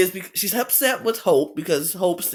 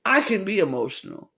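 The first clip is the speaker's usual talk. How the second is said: retold indignation; 5 semitones higher than usual. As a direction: act out her standing up for herself, point by point. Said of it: "She was not happy with that comment".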